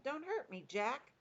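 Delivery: high, pleading wail; Flesh Lump Eater. A narrator's reading. Nightmare-stricken giant begs Jack, mock-frightened yell. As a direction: beg for mercy high, with little added volume. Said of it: "he yelled".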